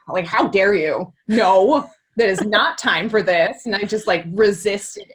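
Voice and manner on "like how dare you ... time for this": mock offended. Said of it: "And I was like".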